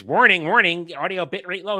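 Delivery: loud mock alarm announcement; mock warning alert. Streamer reads out YouTube's audio alert, mock alarm. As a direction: call it out like a software alert. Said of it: "I glance over and it says".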